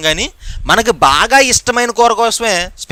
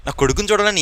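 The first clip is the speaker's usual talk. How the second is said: put-on softer, lower, yearning old man's words; longing, softly; 4 semitones lower, 7 dB quieter than usual. A dying apostle longing to see his son, softly. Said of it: "చనిపోయే ముందు కూడా ఆయనకు ఆశ".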